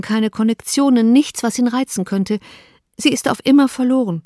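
a hint of a young woman in distress, rising pitch; distressed Elizabeth. Elizabeth telling Darcy of her sister's elopement, distressed. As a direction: let her voice climb as the bad news spills out.

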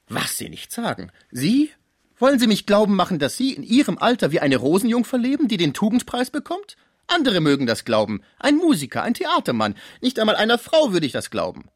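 incredulous concierge. A narrator's reading. Concierge mocking the sick man's chastity, high and loud. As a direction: scoff loudly at his claim. Cibot disbelieving tirade.

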